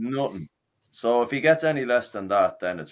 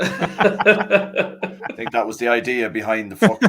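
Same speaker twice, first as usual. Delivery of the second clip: laughing sarcasm; much slower than usual. Real, not acted. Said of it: "I don't think it was".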